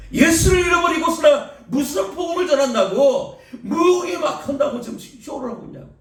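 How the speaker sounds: half-laughing scolding of a showy preacher. Acted.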